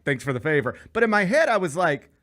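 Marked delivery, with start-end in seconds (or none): 0.0-0.8 hushed, deferential appreciation; meek politeness. Retold or imitated. Driver to the officer in real life, meekly polite. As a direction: say it softly, swallowing the argument. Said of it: "No, in real life".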